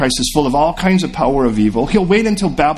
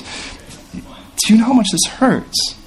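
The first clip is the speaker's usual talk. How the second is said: higher, slow and aching; pained question; 9 semitones higher, much slower than usual. Acted. Mourners pressing their grief on Jesus, slow and aching. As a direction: let the hurt drag out every word. Grieving house pours sorrow on Jesus.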